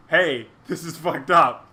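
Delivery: loud, slow, emphatic call-out; stern forum reply. Pretend. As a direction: imitate posters calling it out firmly. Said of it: "people on the forums were like".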